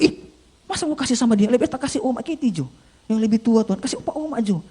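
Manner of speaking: high-pitched bargaining with God; reluctant protest. Acted. Preacher arguing to give it to older people, high protest. Acted haggling with the inner voice.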